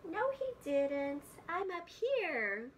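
loud, slow call from up high; high, loud call of a little bird. Acted. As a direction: shout it down from the branch. Baby bird calls down to frog.

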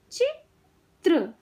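चित्र slowly, with a gap before त्र; syllable by syllable. Shown as a demonstration. Teacher teaching kids to read, syllables apart. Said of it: "शब्द पढ़ना सिखाऊंगी".

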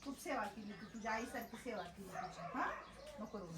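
soft comforting. Real, not acted. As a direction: quietly soothe her so she stops crying. Comforting a crying woman softly.

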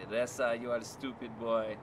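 put-on friend's mom in a Persian accent; lightly put-on Persian-accented English. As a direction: imitate a scolding Persian mother's accent. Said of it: "a sample of something from a Persian accent".

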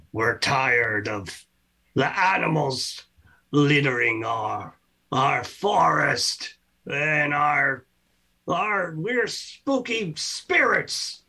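drawn-out ghostly complaint; slow spooky spirit. Acted. Forest spirits complain about animals littering, drawn out.

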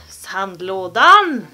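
Sandlådan loud and slow, last syllable swooping; playful mock-French Sandlådan; French-sounding sandlådan. Shown as a demonstration. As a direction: say Sandlådan as if it were Saint Laurent. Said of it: "Låter nästan som".

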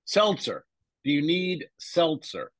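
"seltzer" drawn out, meant as salsa. Retold or imitated. Boyfriend imitates girlfriend repeating her offer, salsa pronounced "seltzer". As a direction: insist on "seltzer" with an "el" sound. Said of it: "She says salsa as seltzer".

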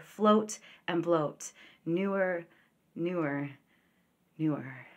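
measured poem recitation, words set apart; poetry reading. Acted. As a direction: read it as a poem, letting the last repeats sink and fade.

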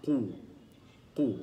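قو with a thick, emphatic back qaf and rounded lips; heavy qaf demo. Shown as a demonstration. Teacher demonstrating emphatic qaf to students. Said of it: "ثم ننطق بالحرف".

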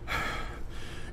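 very soft, airy sigh; exasperated sigh. Real, not acted. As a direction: breathe out in defeat. Exasperated with chat.

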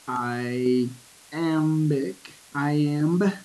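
"iambic, iamb" broken slowly, weight on the AMB; unstressed then stressed. Shown as a demonstration. Teacher explains the name "iamb", second syllable stressed and drawn out. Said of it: "same structure as unstressed, stressed".

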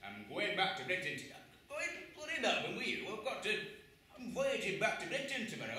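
indignant captain shouting her down; angry refusal. Retold or imitated.

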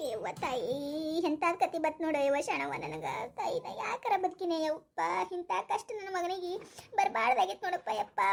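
soft, slow, tearful lament, near sobbing. Acted. Mother laments her son's troubles, softly weeping. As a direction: grieve quietly over her son's hardship. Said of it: "ಎದಕ್ ಅಳ್ತೀಯ ನೀನು".

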